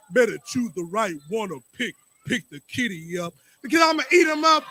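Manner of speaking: rhythmic slam poetry delivery; spoken word poetry. Acted. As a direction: perform it like a slam poem. Performs spoken word poem.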